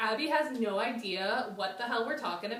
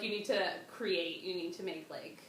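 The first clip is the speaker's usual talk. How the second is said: spirit voices; 4 semitones lower, 5 dB quieter than usual. Retold or imitated. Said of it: "They were like".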